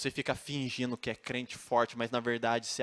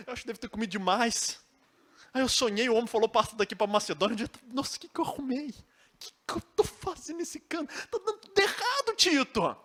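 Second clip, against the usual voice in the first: much higher, pleading, near-crying voice; desperate lament; 7 dB louder than usual. Acted. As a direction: beg your friend for help, at the end of your rope. Paulo pours out despair to Tito.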